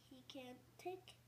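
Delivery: softly whispered ticking. Acted. Reading about a clock, whispered tick. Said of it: "He can sound like a clock".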